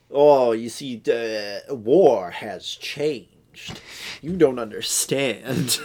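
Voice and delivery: slow, melodramatic movie speech; hammed-up portentous cowboy lecture; mock grave. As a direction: draw out the big words as if delivering a solemn warning. Acting out the film's heavy-handed dialogue.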